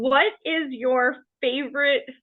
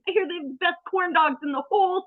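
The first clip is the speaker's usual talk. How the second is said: eager movie character; 5 semitones higher, faster than usual. Retold or imitated. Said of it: "Meryl Streep's character just wants to eat".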